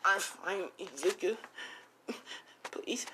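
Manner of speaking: soft, high, frightened voice; small high mock-fearful voice; trembling victim. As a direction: plead faintly, as if scared. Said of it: "As she trembling".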